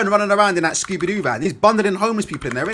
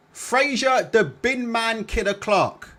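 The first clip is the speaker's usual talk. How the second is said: slow, higher, announcer-style build of the nickname; ring announcer; 3 semitones higher, slower than usual. Shown as a demonstration. Streamer introducing Fraser Clark, mock announcer drawl. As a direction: roll the name out like a ring intro. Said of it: "repeats nickname drawn out".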